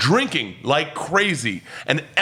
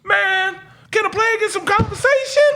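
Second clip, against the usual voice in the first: imitated black guy. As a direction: mimic the guy's smooth line. Imitating black guy's line.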